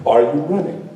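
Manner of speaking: a hint of a grown lion, measured; lion questioning a cub. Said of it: "the lion says to the little cub".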